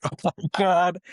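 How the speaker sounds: high, giddy disbelief; retold astonishment. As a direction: replay a starstruck gasp of words. Retold shock at seeing stunt performer.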